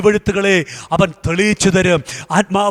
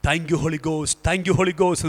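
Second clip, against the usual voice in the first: hushed thanks; 4 semitones lower, 6 dB quieter, much slower than usual. Real, not acted. Murmured thanks after the climax.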